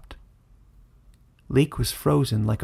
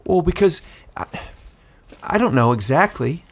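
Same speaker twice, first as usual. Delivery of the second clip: put-on louder, eager young man, wistful awe; excited Caleb; 5 semitones higher, 4 dB louder than usual. A narrator's reading. Caleb recalls the dragon's power, a bit louder and eager. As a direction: talk it up with growing eagerness.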